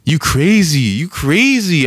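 high, drawn-out mock alarm; high-pitched retold cry of a spooked woman; imitating scared woman. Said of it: "She gets scared".

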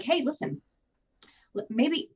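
butter him up like you're admitting something; sweet manipulative pitch. Retold or imitated. To her partner, a manipulative sweet-talking plea. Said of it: "And I was like".

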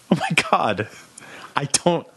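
hushed, breathy imitation of dismay; whispered mock realisation. Son imitating mom noticing the ticking clock, whispered. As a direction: whisper it as if it just dawned on you. Voices mom's sudden realisation.

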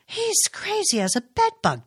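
high, scoffing jab; a son scoffing at his brother; scornful. A narrator's reading. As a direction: scorn with a trace of fun. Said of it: "Travis declared scornfully".

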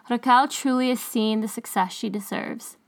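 usual speaking voice

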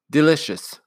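a crisp, pleased nanny tastes a cookie; Nanny's voice. Acted. Nanny tasting a cookie, mildly pleased.

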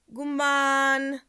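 high, loud and moved; touched exclamation. Real, not acted. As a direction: cry out to her fondly. Moved by listener's letter. (rörd utrop)

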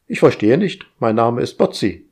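fussy household robot. Acted. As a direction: nag like an overeager house AI. Narrator voices household AI.

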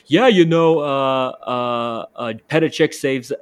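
put-on a botched London accent that slides toward New Jersey; hammed-up London accent that isn't quite landing; John Terry London accent. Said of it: "I try to do the, the London accent".

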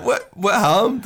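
high, drawn-out astonished question; incredulous curiosity. Retold or imitated. Workmate presses his friend for the story, high incredulous question.

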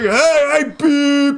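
high-pitched mock calling out; retold shouting and honking. Another driver warns the bumper-dragging car, mock shouting. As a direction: imitate a driver yelling and beeping. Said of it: "we're screaming so loud".

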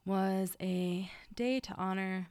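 stifling a yawn mid-sentence; talking through a yawn. Real, not acted. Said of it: "I just tried to stop yawning".

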